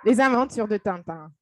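Les Aventures de Tintin in proper French; French pronunciation. Shown as a demonstration. Telling a friend her childhood shows, in French. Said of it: "let me tell you what I watched".

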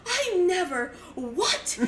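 hammed-up actressy shock; Meryl Streep. Mom pretends she knew nothing for police, hammed-up shock. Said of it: "pretending to be Meryl Streep".

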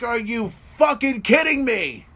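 high, loud, slow disbelief; incredulous. Acted. Voicing The Undertaker after the kick-out, incredulous. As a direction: stretch it out in outraged disbelief. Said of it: "He's like".

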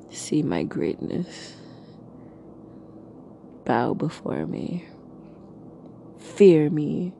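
a light mock dark lord; booming demon lord. Mock-grand commands, menacing.

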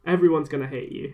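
imitated French lecturer, lightly accented; a hint of mock French accent. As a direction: pronounce it like a French professor. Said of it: "I'll do the accent".

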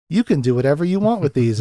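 imitating childlike glee; giddy, childlike. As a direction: play at being a delighted child. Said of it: "he's so giddy and childlike".

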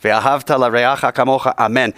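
rattled off fluently from memory; quick recitation. Shown as a demonstration. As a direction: show how easy it comes. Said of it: "in about two weeks".

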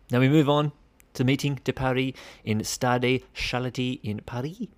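Paris names in a self-mocking French accent. Shown as a demonstration. Host shows off his French accent on Paris. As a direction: lay on the French accent for the venue. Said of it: "fantastic French accent there by myself there".

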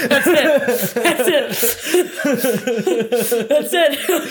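laughing with pure delight; giddy, bursting with happy laughter; beaming with joy. Real, not acted. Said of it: "She's so happy".

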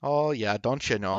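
lightly put-on Canadian accent. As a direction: play along as a folksy Canadian. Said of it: "In real life, it's".

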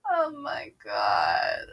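helpless laughing breakdown; laughing fit. Real, not acted. Reader breaks down laughing at herself after the chapter. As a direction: crack up and can't stop. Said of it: "why am I so dumb?".

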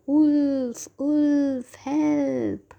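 high, drawn-out cries of alarm; acted cry for help; shouting for help. A narrator's reading. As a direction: call out loudly, stretching each word. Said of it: "began shouting as loudly as he could".

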